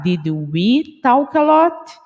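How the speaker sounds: "did we talk a lot?" spoken slowly, word by word; a teacher modelling careful practice; slow careful question. Shown as a demonstration. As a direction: go slowly through "did we" without rushing. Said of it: "temos que falar um pouco pausadamente".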